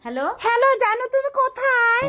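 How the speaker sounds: fake woman's voice. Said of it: "মেয়েদের গলা নকল করে".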